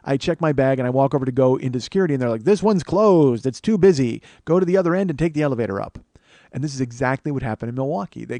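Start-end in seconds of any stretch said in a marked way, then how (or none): 2.4-6.0 stretched, raised delivery of a staffer turning people away; mock official announcement. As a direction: call it out like airport staff, drawing out the first words. Acted airport staff directing passengers.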